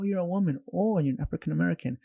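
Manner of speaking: putting on a surprised onlooker; imitated surprise. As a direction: act out someone's surprised first impression. Voices people's surprised snap judgement.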